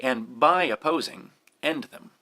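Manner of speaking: "by" punched in "and by opposing"; verse quoted with the weight on "by"; stress on BY. Shown as a demonstration. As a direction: hit "by", then let "opposing" follow. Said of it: "we've stressed by".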